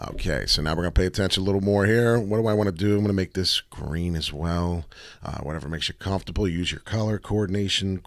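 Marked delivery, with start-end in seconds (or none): none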